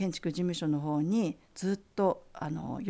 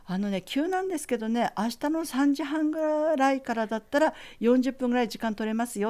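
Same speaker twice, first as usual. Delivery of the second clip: a lightly voiced, higher, kindly teacher; teacher's voice; 6 semitones higher than usual. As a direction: imitate the gracious teacher offering time, voice up. Teacher offers a meeting time.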